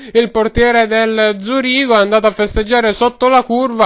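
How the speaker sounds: mock radio match report, words stretched out; football commentary. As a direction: report it like a stadium correspondent. Spoof live football report from stadium.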